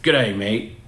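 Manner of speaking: a light, hammed-up British accent of a bad impersonator; mock British accent. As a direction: toss off a cheesy British "Good day, mate". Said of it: "I like the speaker's British accent".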